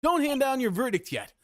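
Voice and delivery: urgent, rising plea to the judge; pleading lawyer. Acted. Defense lawyer begging the judge to wait, urgent. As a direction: stop the verdict, begging. Game dialogue, lawyer objecting.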